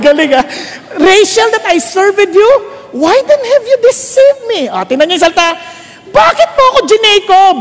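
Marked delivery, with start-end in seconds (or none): 1.0-4.7 mildly angry, raised-pitch protest; angry Jacob. Acted. Jacob confronting the man who deceived him, angry. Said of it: "galit na galit siya". 6.1-7.6 raised-pitch angry demand; angry Jacob. Acted. Jacob asking why he was tricked, angry. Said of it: "galit na galit siya".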